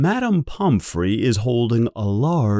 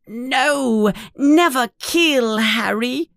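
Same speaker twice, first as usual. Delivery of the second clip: high, squeaky elf voice, sad and pleading; pleading house elf; 12 semitones higher than usual. Acted. Dobby the house elf pleads with Harry, high and squeaky. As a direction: plead with him like a worried little elf.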